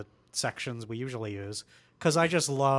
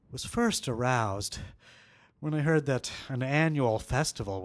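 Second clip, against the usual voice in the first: sexy voice. Acted. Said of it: "in your sexy voice".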